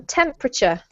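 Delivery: "temperature" in three syllables, TEMP-ruh-chuh; model pronunciation. Shown as a demonstration. Teacher going over a word, "temperature" as TEMP-ruh-chuh. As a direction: say "temperature" clearly, stressed on the first syllable. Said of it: "the second word I want you to go over".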